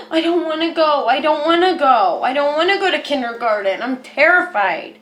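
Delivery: a hint of a little kid whining, half laughing; mock a child refusing kindergarten; lightly voiced kid who won't go to school; whiny scared child. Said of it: "that inner child".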